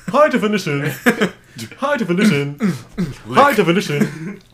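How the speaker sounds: laughing. Acted. Laughing, repeating the phrase.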